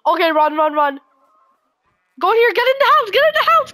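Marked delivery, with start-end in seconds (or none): 2.2-2.5 high shouting while fleeing; panicked yelling. Real, not acted. 2.5-3.1 yelling. Real, not acted. First call. 3.1-3.7 higher, more urgent yell; louder yelling. Real, not acted. Repeated higher.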